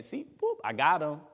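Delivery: a light squeaky gloat on the "boop"; preacher lightly voicing the enemy's gleeful taunt. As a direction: play the enemy pleased with his trick. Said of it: "that's the enemy saying".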